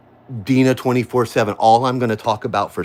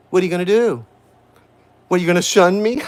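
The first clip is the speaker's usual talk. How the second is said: laughing taunt; 7 semitones higher, faster than usual. Real, not acted. Mocking former friends who shunned her.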